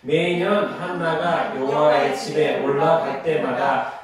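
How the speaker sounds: slow, measured chant of the Bible text; scripture reading. Acted. Teacher leads the class reading the Samuel passage, solemn and slow. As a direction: read it aloud like a solemn recitation.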